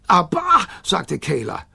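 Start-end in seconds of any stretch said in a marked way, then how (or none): 0.1-0.7 put-on high, punchy toddler exclamation; baby voice. A narrator's reading. Kayla backing up the Gigglerin, high baby voice.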